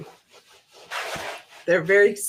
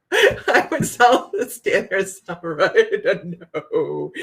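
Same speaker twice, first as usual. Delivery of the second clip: laughing through words; 6 semitones higher, much slower than usual. Real, not acted. Still laughing at own joke.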